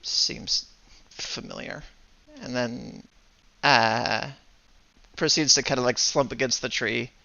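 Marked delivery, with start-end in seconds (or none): 0.0-1.8 a huff that trails off under the breath; huffy. Acted. Upset character huffs before storming off, huffy. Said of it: "huffs, uh, uh, and goes".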